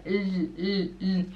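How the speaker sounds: isolated L, tongue to the roof of the mouth; L on the palate. Shown as a demonstration. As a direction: hold a clear L, never a W. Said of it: "O L é no céu da boca". (L no céu da boca, isolado)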